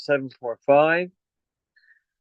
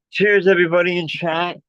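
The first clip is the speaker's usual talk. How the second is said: out of breath; 3 semitones higher than usual. Real, not acted. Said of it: "Sorry, I'm out of breath now".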